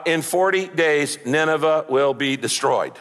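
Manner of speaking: matter-of-fact announcement; matter-of-fact Jonah. Retold or imitated. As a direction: announce it briefly, without feeling. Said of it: "he announces it in a matter-of-fact tone".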